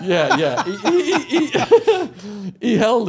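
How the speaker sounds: real giggles breaking up the words; laughing. Real, not acted. Storyteller correcting the listener's joke about a dead cop, laughing helplessly. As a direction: stammer through laughter, high and loud.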